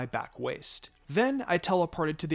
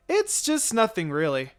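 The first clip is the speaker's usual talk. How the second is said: raised, flustered denial; nervous cover-up; 7 semitones higher, 5 dB louder than usual. Acted. Babysitter caught by Itachi, flustered and loud. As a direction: bluff your way out, flustered.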